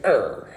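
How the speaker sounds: low little grr of pretend anger; mock toddler growl. Dad imitating his mad three-year-old, low mock growl. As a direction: imitate a small child's grumpy growl. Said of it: "when he gets mad, he goes like".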